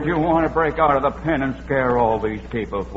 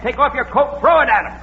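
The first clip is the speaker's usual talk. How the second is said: higher and louder, laughing nervously; frantic urging; 13 semitones higher, 4 dB louder than usual. Acted. To Witherall facing the bull, high frantic urging. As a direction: yell it up high in a panic.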